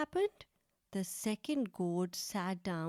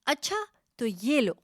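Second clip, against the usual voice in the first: louder, higher, taking a swing; angry goat lowering its horns; angry goat threatening to fight; 4 semitones higher, 6 dB louder, faster than usual. Acted. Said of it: "और जोर से बोली".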